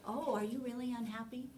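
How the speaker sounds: soft, rising, patronizing echo; a parent's demeaning echo of a sad child, patronizing; mock mirroring. Shown as a demonstration. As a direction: parrot the child back condescendingly. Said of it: "Don't do that. That's so demeaning".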